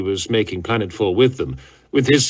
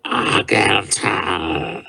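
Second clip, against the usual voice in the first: slow, low grating call; grating hiss; 4 semitones lower, much slower than usual. A narrator's reading. Exhausted warlord hissing for his captain. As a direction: drag the name out in a hiss. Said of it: "his voice a grating hiss".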